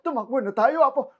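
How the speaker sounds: put-on an old man urging a run; panicked grandpa. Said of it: "radio drama".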